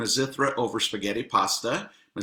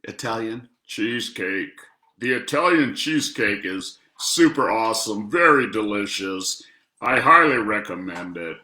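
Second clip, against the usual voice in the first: bad Italian accent; 8 dB louder than usual. Shown as a demonstration. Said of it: "I'm really bad at accents".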